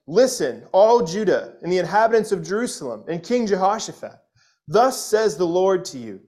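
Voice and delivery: proclaiming the prophet's words with force; scripture reading. Acted. Preacher to congregation, proclaiming the prophet's message boldly. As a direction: read it like a bold oracle to the crowd.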